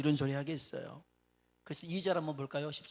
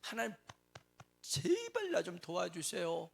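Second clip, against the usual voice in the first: pleading prayer; 3 semitones higher than usual. Retold or imitated. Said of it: "라는 거였습니다".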